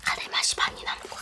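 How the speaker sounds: speaking between bites; talking while chewing. Real, not acted. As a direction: mouth partly full. Seen 1: Chewing face before and through the words, food and chopsticks at hand.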